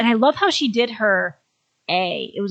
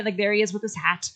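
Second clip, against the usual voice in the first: ordinary talk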